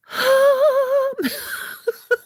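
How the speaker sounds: real high-pitched giggle. Real, not acted. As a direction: burst into a high laugh. Laughs at herself.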